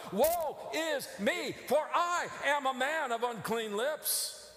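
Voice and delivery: anguished high cry, slow and loud; desperate shout of woe. Acted. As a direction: wail it like a broken prophet. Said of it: "cried out".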